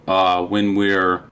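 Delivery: audio cutting out; choppy broken-up mic; glitching audio. Real, not acted. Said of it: "Did he cut out again?".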